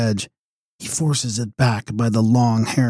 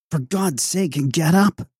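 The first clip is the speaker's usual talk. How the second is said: higher-pitched, lightly voiced woman; urgent plea in a high woman's voice; female voice; 6 semitones higher than usual. A narrator's reading. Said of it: "a female voice said".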